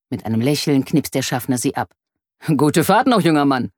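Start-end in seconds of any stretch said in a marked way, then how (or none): 2.6-3.7 mildly friendly conductor; a touch of cheerful politeness. A narrator's reading. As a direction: send off a young passenger kindly. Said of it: "sagt er freundlich".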